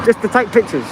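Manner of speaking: speaking behind a face mask; muffled through mask. Real, not acted. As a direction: mask dulls the words. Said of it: "I can't hear you with the mask on and traffic".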